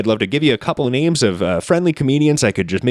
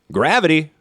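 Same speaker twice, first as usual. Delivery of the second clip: a lightly voiced comic playing a scientist; Mark Normand as scientist; 5 semitones higher than usual. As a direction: say gravity like a bemused scientist. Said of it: "This is Mark Normand as a scientist".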